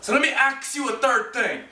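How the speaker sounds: "ask" as "aks"; "aks you" plainly; saying ax. Shown as a demonstration. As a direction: drop in "aks" casually. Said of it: "used the word axe instead of ask".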